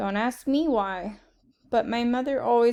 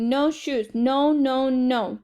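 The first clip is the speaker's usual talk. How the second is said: screamed; 4 dB louder, much slower than usual. Acted. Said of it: "He screamed".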